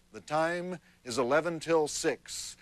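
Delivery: slow West Texas drawl from a talking watch; West Texas accent. Acted. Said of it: "says it in a West Texas accent".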